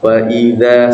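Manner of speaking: wa idza held about one second; timed recitation; one-second stretch. Shown as a demonstration. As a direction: time the vowel by seconds. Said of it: "satu detik".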